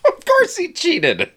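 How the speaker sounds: laughing. Real, not acted. Laughing at the cheating joke.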